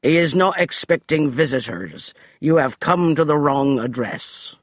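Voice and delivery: haughty butler voice; stiff declaration. Acted. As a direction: declare it with servant's pride. Finch continues.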